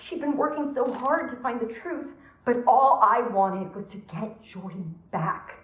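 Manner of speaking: distraught, rising confession; agitated confession. Acted. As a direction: let guilt push the voice up.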